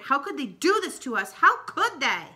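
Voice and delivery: anguished, rising cry; distressed. Acted. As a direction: plead in disbelief. Grandmother upset about father's parole.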